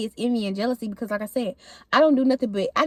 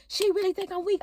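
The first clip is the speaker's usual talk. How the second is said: softer, higher self-talk; talking to herself; 6 semitones higher, 6 dB quieter than usual. Retold or imitated. Talking to herself about being thought weak, softer and higher. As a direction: retell it as disbelieving talk to yourself. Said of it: "I'm talking to myself".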